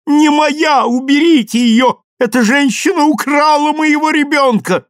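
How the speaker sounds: high, loud frantic scream; mother screaming the baby is not hers; shrill scream. A narrator's reading. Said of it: "пронзительно закричала".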